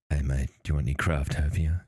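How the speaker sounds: lightly voiced shady character, a bit low; shady dealer. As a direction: offer it like a shady back-alley dealer, lightly. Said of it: "a shady looking character in a trench coat".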